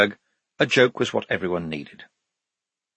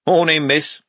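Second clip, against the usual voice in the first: bright and loud, higher-pitched hello; cheerful greeting; 7 semitones higher, 5 dB louder, slower than usual. A narrator's reading. Ferry guard greeting a woman passenger, cheerful. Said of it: "he said cheerfully".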